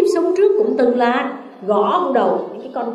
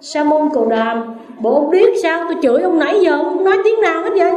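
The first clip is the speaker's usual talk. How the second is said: angry Brahmin; 3 semitones higher than usual. Acted. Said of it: "ông tức quá".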